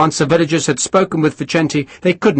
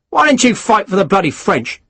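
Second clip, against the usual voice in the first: snarled; 8 semitones higher than usual. A narrator's reading. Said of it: "Harris snarled".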